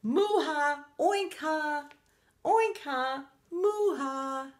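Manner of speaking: high, forceful moo-ha and oink-ha; gleeful pig and cow ha-has; triumphant animal laughter. A narrator's reading. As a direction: have the last laugh in animal noises. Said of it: "they had the last laugh".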